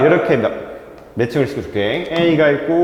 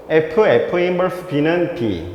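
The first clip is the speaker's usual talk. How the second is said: slow, spaced-out reading of the formula; much slower than usual. Shown as a demonstration. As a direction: read each symbol out slowly for the class. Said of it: "자, 이렇게 읽어볼게".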